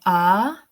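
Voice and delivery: "ah" as a long open vowel with no R; non-rhotic RP "ah"; RP pronunciation. Shown as a demonstration. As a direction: draw out "ah" slowly, the RP way. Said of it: "I don't say".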